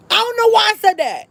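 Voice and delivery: high squeal of disbelief; comically high, baffled outburst; mock dismay. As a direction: squeal it, aghast at yourself. Dismayed at own panicked order.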